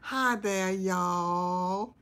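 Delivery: drawn-out Southern "y'all" rising at the end; Southern accent attempt. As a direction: another shot at a Southern hello. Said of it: "Still not right".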